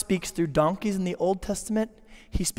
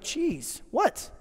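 higher, fast, put-upon protest; mock offended; 6 semitones higher, faster than usual. Murderer acting offended at the victim's refusal, fast whiny protest. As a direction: play the wounded innocent. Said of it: "And you're like".

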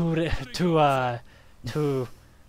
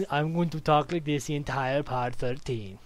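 mock Dracula-German accent. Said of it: "You have a problem with my accent?".

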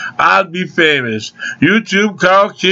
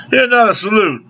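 ordinary delivery

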